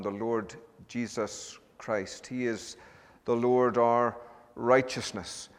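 solemn, measured public prayer with long pauses; reverent prayer. Acted. Preacher leading the congregation in prayer to God, reverent. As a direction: lift the words up to God, unhurried.

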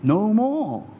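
booming Bible reading; big booming voice. Retold or imitated. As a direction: boom it out like a reader. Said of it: "deep, booming voice".

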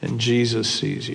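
a creepy disembodied voice in the dark; parrot voice. Acted. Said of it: "he hears it again".

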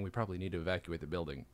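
low, soft, quick calm aside; understated, very calm announcement. Retold or imitated. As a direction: say it quietly, keeping very calm. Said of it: "very calmly saying".

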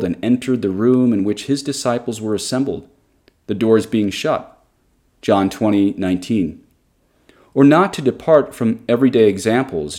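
solemn, evenly phrased read-aloud; formal reading aloud. Acted. Podcaster quoting a text on Mary's virginity to listeners, formal reading.

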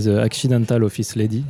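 book title said with an English accent. Real, not acted. Host reading an English book title to listeners, English accent. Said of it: "vous pouvez voir mon super accent anglais".

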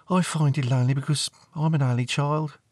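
put-on lonely teenage girl. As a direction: confide it like a teenager.

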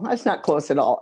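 ordinary talk

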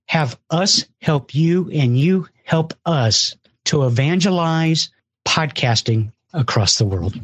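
breathless after a long push; running out of air while talking; out of breath. Real, not acted. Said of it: "I'm out of breath".

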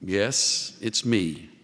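understated tender reassurance; tenderly. A narrator's reading. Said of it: "she answered tenderly".

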